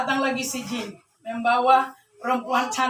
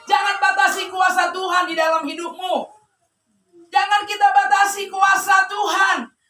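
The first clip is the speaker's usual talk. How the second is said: raised, insistent preacher delivery; fervent preaching; 5 semitones higher, 4 dB louder than usual. Real, not acted. Preacher urging the congregation to love God, fervent preaching. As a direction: press each phrase home to the congregation.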